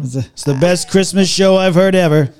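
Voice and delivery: playful politician impression; Donald Trump. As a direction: declare it with presidential superlatives. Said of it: "Okay, Donald Trump".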